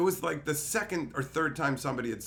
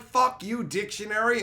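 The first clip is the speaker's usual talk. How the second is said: half-joking yell, raised and louder; mock yell; 9 semitones higher, 6 dB louder than usual. Yelling at the useless dictionary, mock angry. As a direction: snap at the dictionary, mock furious.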